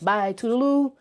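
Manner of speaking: mock-breezy sign-off; cheesy farewell. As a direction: wave it off with a playful lilt. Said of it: "That was, that was extra and cheesy".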